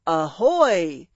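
loud pirate call of "Ahoy!"; cry. A narrator's reading. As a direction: hail him across the water. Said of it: "came a cry from the ship".

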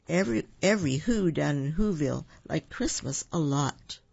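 put-on lively read-aloud for children; story narration. A narrator's reading. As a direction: tell it like a bedtime story. Reads picture book aloud.

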